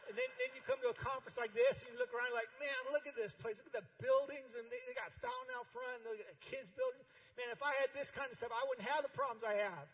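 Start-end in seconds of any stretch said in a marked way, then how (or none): 2.6-8.6 high, loud mock awe; envious visitor. A jealous pastor gawking at another church's campus, high and loud. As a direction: gawk at the buildings in exaggerated envy. Mocking envious leader at conference.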